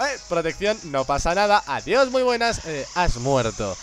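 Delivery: breezy mock confident voice, last words slowed; lightly hammed cocky gamer; smug self quote. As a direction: toss it off smugly, then drag out the last words. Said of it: "yo como".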